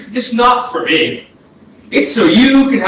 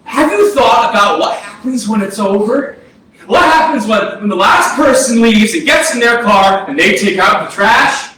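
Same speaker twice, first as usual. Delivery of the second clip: raised, heated yelling at his brother; angry shouting. Acted. Ghost brother yells in argument.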